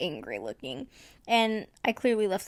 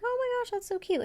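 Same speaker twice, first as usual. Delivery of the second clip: gushing over cute; 12 semitones higher, faster than usual. Retold or imitated. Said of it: "and I was like".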